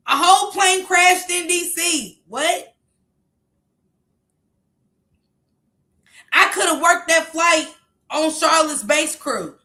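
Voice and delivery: indignant readout. Retold or imitated. Woman repeats the other woman's text, loud and indignant.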